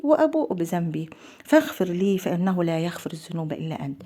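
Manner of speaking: slow, calm and heartfelt; with serenity. Shown as a demonstration. Host showing viewers how to pray with calm devotion, slowly. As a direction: recite it unhurried, feeling each word. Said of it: "لما يقولها كده بسكينة".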